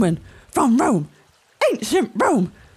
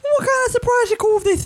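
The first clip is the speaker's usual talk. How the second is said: raised voice; 12 semitones higher than usual. Acted. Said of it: "keep your voice down".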